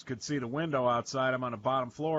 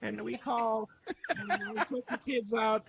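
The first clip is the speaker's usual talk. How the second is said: put-on high-pitched Hispanic granny accent; imitated Hispanic accent, pitched up; mock Hispanic accent; 9 semitones higher than usual. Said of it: "This is my accent".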